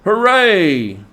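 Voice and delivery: loud, high whoop of delight; joyful cry. A narrator's reading. Rat shouting to the mole over his find, loud whoop. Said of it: "Suddenly the rat cried".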